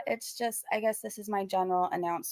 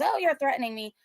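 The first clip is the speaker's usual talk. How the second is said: mocking whiny quote; 6 semitones higher than usual. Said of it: "it was".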